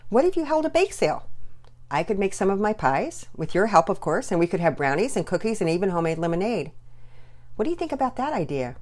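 a hint of a cheerful mom voice; lightly voiced mother. Mother character voice in story.

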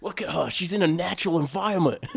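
mock Aussie wildlife-host accent; Australian accent. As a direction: narrate like an Australian nature host. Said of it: "It was just O G Australian".

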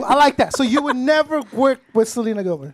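ordinary delivery

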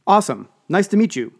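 put-on bright, bouncy young woman; bubbly. Shaking hands, jogging in place.

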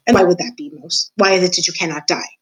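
a lightly voiced, gloating old jailer; a hint of a menacing jailer taunting the mouse; creepy old jailer. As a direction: savour every word like a sly old jailer in the dark. Gregory's voice again.

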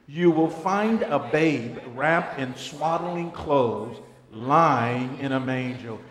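slow, solemn Bible reading; scripture reading. Acted. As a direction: read the verse with weight. Reads scripture aloud.

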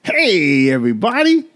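stretched, swooping host intro; show-opening greeting. Real, not acted. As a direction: sing out a big welcome, then settle.

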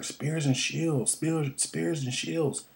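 slow, high panicked shouting of orders; full panic. Retold or imitated. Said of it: "in a full panic".

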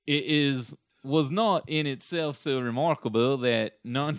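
hammed-up British accent, declaimed; bad British accent. Shown as a demonstration. Reading an ancient quote as Plutarch for the hosts, bad British accent. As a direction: put on an exaggerated, wobbly British accent. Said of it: "I'll try and do a British accent".

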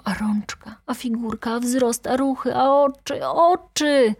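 high, gushing exclamations of wonder; enraptured admiration. Acted. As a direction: marvel at her, pitch lifted, building to the last word. Enraptured inner exclamations about a woman.

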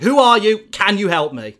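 high, loud eager plea; eager call out. Retold or imitated. Gargan calling through cell bars to the vision, high eager plea. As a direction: press against the bars and call out.

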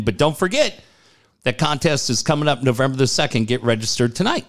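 brisk announcer liner, rattled off quickly; radio promo read. Shown as a demonstration. DJ reading the giveaway liner to listeners, quick announcer read. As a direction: sell the contest like a DJ on air.

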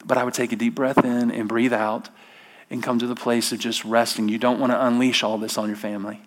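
quiet soothing counsel; soft whisper. Retold or imitated. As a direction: breathe the words like a calming inner voice. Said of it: "whispers in your inner soul".

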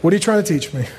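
acted sincere prayer; humble prayer. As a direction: ask God humbly, without any complaint. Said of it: "Stopping to say".

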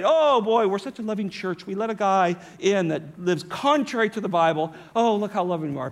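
lightly gushing mock pride; mock self-congratulation. Preacher voicing the church proud of its tolerance, mock self-congratulation. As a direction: imitate a smug, pleased congregation. Mocking the church's boast of love.

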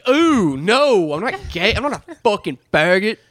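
high, exaggerated indignant imitation; venomous denial. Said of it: "he says it with this venom".

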